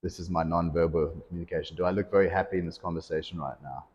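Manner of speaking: low-key, unenthusiastic delivery; unhappy monotone. Shown as a demonstration. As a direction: demonstrate a joyless, monotone coach. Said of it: "have this monotone voice".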